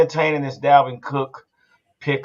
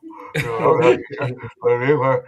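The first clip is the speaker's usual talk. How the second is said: garbled mumbling imitation; mock a mush-mouthed talker with wordless noise; slurred mock babble; Boy Wonder; 2 semitones lower than usual. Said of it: "listening to Boy Wonder with his mouth".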